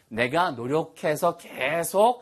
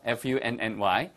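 slow spelling; 5 semitones lower, much slower than usual. Shown as a demonstration. Teacher spells the word slowly for the class. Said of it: "간단하죠?".

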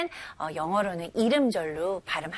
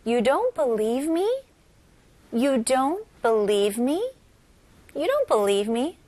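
slow rising question, a little louder; hurt disbelief; 3 semitones higher, 3 dB louder, much slower than usual. Shown as a demonstration. Teacher drills the doubting question, hurt and rising. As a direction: sound hurt they doubt you. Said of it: "믿지 않은 감정".

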